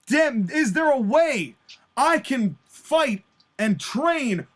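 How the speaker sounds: deliberate speech in punched phrases; defiant wrestler promo. Acted. Injured wrestler confronting the rival who hurt him, defiant. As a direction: declaim it with heavy pauses between phrases.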